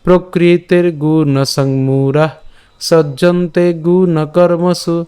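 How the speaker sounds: slow, sustained, even-pitched verse recitation; full shloka recitation. Shown as a demonstration. Teacher reading the complete shloka for learners, slow recitation. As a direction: draw out the vowels and recite evenly. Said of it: "আমি আবার বলছি".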